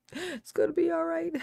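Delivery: high-pitched, lilting repeat; high playful reassurance. Pretend. Streamer reassuring viewers about being late, high and playful. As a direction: lift it into a high little voice.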